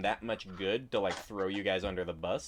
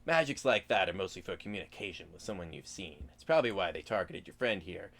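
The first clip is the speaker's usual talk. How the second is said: lightly voiced sly hobgoblin; a hint of a sly goblin explaining; gravelly sly hobgoblin. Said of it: "the hobgoblin sort of explains".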